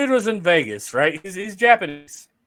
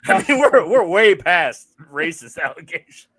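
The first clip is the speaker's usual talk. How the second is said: laughing; 4 dB louder, slower than usual. Real, not acted. Laughing off racism joke.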